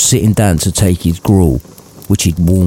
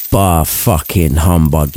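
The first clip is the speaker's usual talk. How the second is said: put-on a low, half-hearted yell of a cranky old man; grumpy Scrooge yell; 5 semitones lower, slower than usual. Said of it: "yelled Scrooge".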